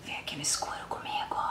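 breathy seductive whisper. Pretend. Unboxing host whispers the cover's come-hither line. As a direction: breathe it like an invitation into the dark. Voicing the album cover's invitation.

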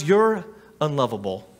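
low, quiet, taunting voice of the enemy; soft, cold put-down; voice of the lies. Acted. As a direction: murmur the lies like a tempter in the ear. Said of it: "Have you ever heard these lies?".

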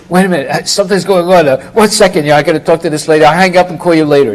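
quick, lightly acted phone brush-off; hurried, flustered. Astrologer caught hiding tells his caller to hold, flustered. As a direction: rush through excuses to end the call.

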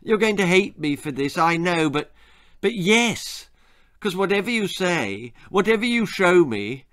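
high, hesitant confession slowing at the end; pleading child's admission; apologetic boy. Acted. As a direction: confess reluctantly, drawing out the last words. Boy reluctantly confesses his love.

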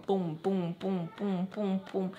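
steady thudding booms; imitated heartbeat. Nervous teller's heart pounding during confrontation, imitated heartbeat. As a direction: pulse each boom evenly. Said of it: "the whole time my heart's going".

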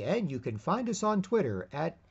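a hint of a TV anchor plugging their Twitter; lightly voiced news announcer reading a promo; upbeat broadcast promo tone, lightly done; mimicking news promos. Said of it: "used to say".

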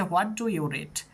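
very slow, every word clear; slow model reading. Shown as a demonstration. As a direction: read it out slowly for the class. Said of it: "তাহলে হয়ে যাচ্ছে". (ধীরে ধীরে স্পষ্ট করে পড়া)

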